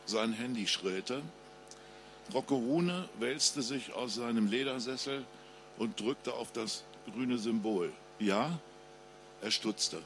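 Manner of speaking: ruhige Krimi-Lesestimme des Autors; Lesung. A narrator's reading. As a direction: spannend vorlesen, wie vor Publikum. Author reads his crime novel. (Autor liest seinen Krimi vor, ruhig und spannend)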